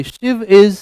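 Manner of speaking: slow, careful English sentence; slow example sentence. Shown as a demonstration. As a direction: read it slowly for students. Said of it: "अब इसमें और चीजें जुड़ जाएंगी".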